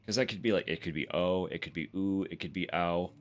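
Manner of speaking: oh, ooh, ow each clearly voiced; listing oh, ooh and ow sounds; vowel options. Shown as a demonstration. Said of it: "Like, I don't know".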